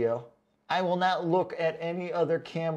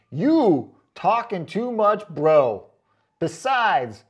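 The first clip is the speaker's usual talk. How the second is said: louder, slow dragged-out bro readout; mock bro voice; 2 semitones higher, 7 dB louder, much slower than usual. Reading a commenter's rude critique, mock bro voice. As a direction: drawl it out like a cocky bro.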